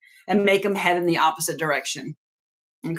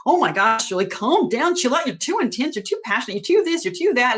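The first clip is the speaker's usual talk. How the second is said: mock the family telling her to calm down; 2 semitones higher, faster than usual. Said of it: "heard a lot from my family".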